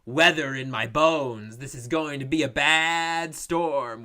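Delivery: slow, hammed-up movie weatherman; lightly voiced weatherman. Mocking the film's boring weatherman dialogue, lightly hammed-up weatherman. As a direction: draw out the trite forecast with mock portent.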